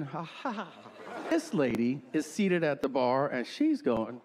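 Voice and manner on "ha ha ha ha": soft fake chuckle; a faint, hollow ha-ha; mock polite laugh. Imitating a bar patron, a soft fake laugh.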